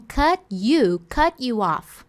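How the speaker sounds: "cut you off" with the T and you blended into "cutchu"; "cut you" run together, "cutchu off"; cut you linked. Shown as a demonstration. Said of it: "ela tá falando".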